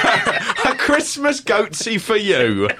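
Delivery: high, drawn-out festive flourish; mock festive announcement. Host spoofing a singer's Christmas album title, mock festive flourish. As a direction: stretch it out like a hammed-up Christmas greeting.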